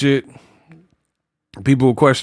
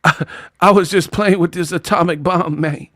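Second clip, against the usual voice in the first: Terrence Howard impression; 2 semitones higher than usual. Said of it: "Terrence Howard movie".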